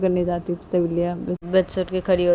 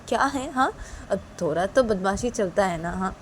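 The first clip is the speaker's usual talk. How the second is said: casual shrug-off; 3 semitones higher than usual. Acted. Father shrugs off wife's complaint, casual. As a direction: brush it off lightly.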